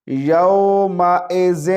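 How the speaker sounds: یومئذ with ئ as ای and ذ as dhal, slow; tongue tip out for the ذ in یومئذ; correct tajweed. Shown as a demonstration. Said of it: "ہمزہ زیر ای ہوتا ہے،".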